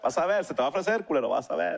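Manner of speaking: put-on quick muttered threat to the baby, rising then dropping; mock threat, fast. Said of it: "Y yo por acá nada más". (amenaza rápida y burlona)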